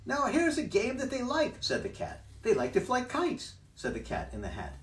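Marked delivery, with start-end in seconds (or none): 0.0-1.6 high, bouncy cheeky cat; cat's voice. Acted. Cat in the hat teasing the fish, high and loud. 2.4-3.5 high, bouncy cheeky cat; cat's voice. Acted. Cat in the hat teasing the fish, high and loud.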